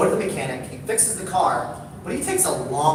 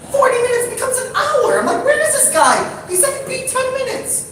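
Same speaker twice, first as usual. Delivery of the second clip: more and more wound up, pitch shooting up; rising impatience. Retold or imitated. Waiting alone, growing impatience.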